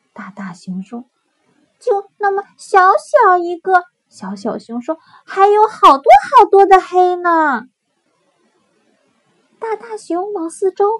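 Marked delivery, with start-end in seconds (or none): 1.8-7.7 high, loud complaining cub; a small cub protesting; little bear voice. Acted.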